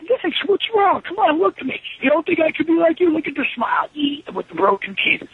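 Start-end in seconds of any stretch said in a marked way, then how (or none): 0.1-3.9 pleading to Vince. Retold or imitated. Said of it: "I'm like".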